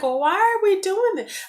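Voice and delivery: high, loud baffled protest; a woman balking at her ex-fiance's threats, incredulous; incredulous question. Retold or imitated. Retelling confronting her threatening ex.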